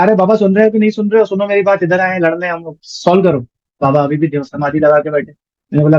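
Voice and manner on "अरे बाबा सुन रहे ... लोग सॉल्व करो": fast, raised call at the baba; impatiently yelling to wake him; shouting. Retold or imitated. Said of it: "चिल्लाया". (चिल्लाकर पुकारना)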